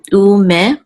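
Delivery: "u me" said slowly, syllable by syllable; sounded out slowly. Shown as a demonstration. Teacher sounding out the word's syllables, slowly. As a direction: draw out "u me" as separate sounds. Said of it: "I'm gonna sound it here".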